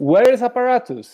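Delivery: high, loud scream.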